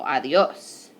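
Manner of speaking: ADIOS with the weight on final OS; last-syllable stress. Shown as a demonstration. Teacher repeating "adios" for students, stress on final OS. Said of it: "emphasis right there on that last syllable".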